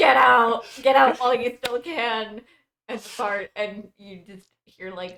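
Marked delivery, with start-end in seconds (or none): 0.0-2.4 very loud, shrill, high-pitched shout. Voicing Chickadee in a shared game story: Chickadee yelling. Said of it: "Chickadee yells".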